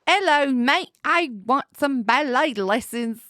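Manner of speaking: shaky attempt at Australian; attempted Australian accent. Shown as a demonstration. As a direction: try a bad Australian accent. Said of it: "An Australian one?".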